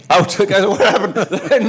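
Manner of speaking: loud, high, drawn-out comic call; high amused imitation of a baffled player; laughing mock call. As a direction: act out the whistle-out while breaking into laughter. Acts out referee's call and reaction.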